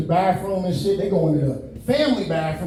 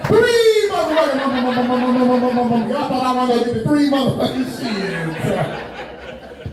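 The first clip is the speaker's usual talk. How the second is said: slow drawn-out punchline; 4 semitones higher, much slower than usual. Acted. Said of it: "That's brand new, fresh off the dome".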